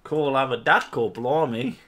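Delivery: put-on Australian accent. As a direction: toss off a lightly faked Australian accent. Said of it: "pretending to do an Australian accent".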